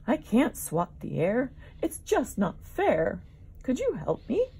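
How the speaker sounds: high, loud, whiny plea; smelly young dino calling to Mario for help; pleading Jabaria. Acted. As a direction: beg for help like a fussy little creature.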